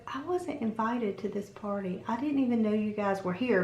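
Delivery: slightly hushed, subdued retelling; quiet confession. Retold or imitated. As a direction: confide it softly, off to the side. Confides to guest aside.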